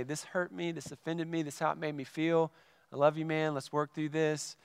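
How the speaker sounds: soft, sincere heart-to-heart; gentle honesty. Acted. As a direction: say it softly, like making peace with a friend. Models a gentle confrontation of a friend.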